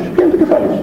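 laughing. Real, not acted. Mocks confusing politicians.

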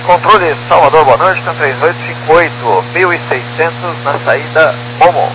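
tinny radio transmission voice; crackly cockpit radio readback; pilot over the radio. Real, not acted. Pilot calling control over radio.

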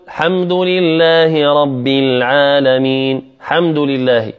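الحمد begun straight on H, "hamdu"; dropped hamza and lam. Shown as a demonstration. Teacher imitating a mistake, الحمد without its "al". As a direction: leave off the "al" of الحمد. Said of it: "لا يذكر الهمزة واللام مطلقا".

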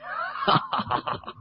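a short satisfied chuckle, breathy; pleased laugh. Acted. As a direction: laugh like a smug general over wine. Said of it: "满面笑容就话啦". (得意咁笑)

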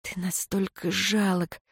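hushed, breathy whisper. A narrator's reading. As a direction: whisper it with contempt. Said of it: "прошептала я".

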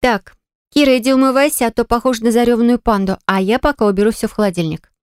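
pitched high, taking charge of the room; bossy commanding. Acted. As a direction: hostess barking chores at her friend. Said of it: "начала командовать Милана".

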